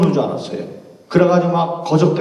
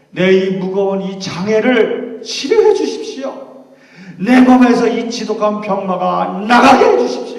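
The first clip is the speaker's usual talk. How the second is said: pleading voice climbing louder and higher; earnest prayer; 4 semitones higher, 5 dB louder than usual. Acted. Paul pleading with God for healing, rising urgency. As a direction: beg God to be healed, building up. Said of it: "간절하게 기도했어요".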